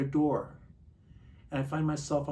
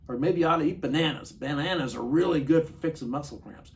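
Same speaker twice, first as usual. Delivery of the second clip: raised, chirpy self-talk, a bit louder; talking himself into easy fixes, higher and louder; inner voice; 5 semitones higher, 7 dB louder than usual. Retold or imitated. Recovering alcoholic recalls reassuring himself about cramps, lightly mocking voice. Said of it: "I thought".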